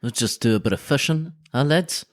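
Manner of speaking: a light attempt at a New Zealand accent; half-hearted Kiwi accent, lads-y. Mate imitating New Zealanders, light Kiwi accent. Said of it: "that was my best attempt at a Kiwi accent".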